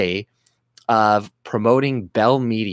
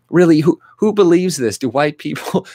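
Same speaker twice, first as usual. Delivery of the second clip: high, much louder incredulous quote; mock disbelief; 6 semitones higher, 5 dB louder than usual. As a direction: act out sarcastic doubt. Mock voice of a doubter.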